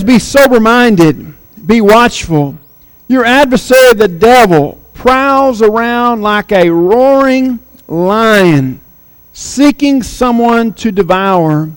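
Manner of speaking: slow, measured reading of the verse; preacher slowly reading scripture. Acted. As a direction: read it out slowly, weighing each phrase.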